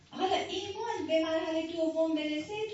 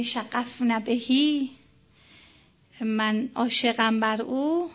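slow quoted line; 4 semitones lower, 10 dB louder, much slower than usual. Retold or imitated. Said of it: "این فیلم امام علی میگه".

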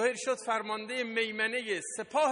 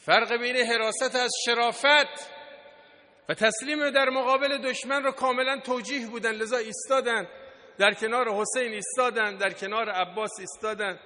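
raised, insistent oratory; forceful preaching; 5 dB louder than usual. Real, not acted. Preacher praises those who stood beside Husayn, forceful preaching. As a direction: drive each repeated phrase home from the pulpit.

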